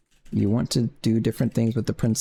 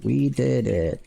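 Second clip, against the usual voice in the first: high cheery princess cheer; cartoon princess; 4 semitones higher, much slower than usual. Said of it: "Those are my princess voice events".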